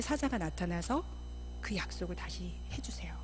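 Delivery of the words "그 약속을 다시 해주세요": whisper. Real, not acted. Soft climax.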